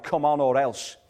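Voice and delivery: hammed-up threatening God; mock threat. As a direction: push it like a threat with a big stick. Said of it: "God's got the big stick out".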